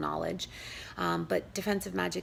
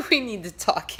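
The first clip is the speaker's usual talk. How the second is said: mock-stern New York accent, louder; a sassy New Yorker laying down the law; a touch of New York attitude; 3 semitones higher, 6 dB louder than usual. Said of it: "a little bit of my New York accent came out".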